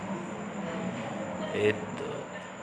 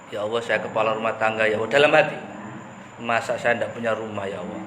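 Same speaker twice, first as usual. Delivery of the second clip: protesting prayer; 3 semitones lower than usual. Retold or imitated. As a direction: gently grumble at God. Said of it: "Saya protes".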